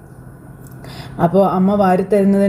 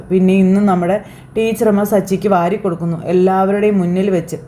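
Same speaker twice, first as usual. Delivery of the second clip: ordinary talk, nothing marked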